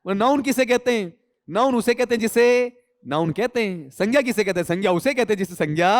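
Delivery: laughing, playful quoting; amused mock answer; mock circular definition. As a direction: retell the joke with amusement. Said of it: "इसे कहते हैं sense of humour".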